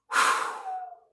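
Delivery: loud forceful blown exhale; cannon breath. Shown as a demonstration. Teacher demonstrating cannon breath to the class, explosive exhale. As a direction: shoot the air out like a cannonball. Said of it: "what we call a cannon breath".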